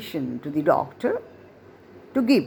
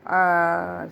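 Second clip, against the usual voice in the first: drawn-out "ah" mimicking a bad phone line; imitated breaking-up voice. Shown as a demonstration. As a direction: mimic a voice lost on a poor connection. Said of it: "Your voice is breaking up".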